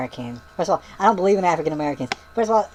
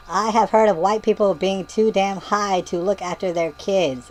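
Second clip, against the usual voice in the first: mock yelling; 2 semitones higher, slower than usual. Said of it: "And she yells at me".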